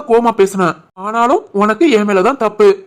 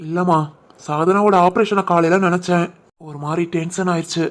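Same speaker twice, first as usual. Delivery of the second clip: softer, heavy-hearted confession; husband confessing worry about his sister's surgery, softly; subdued worry; 3 semitones lower, 4 dB quieter than usual. Acted. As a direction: admit the fear quietly. Worried about sister's operation.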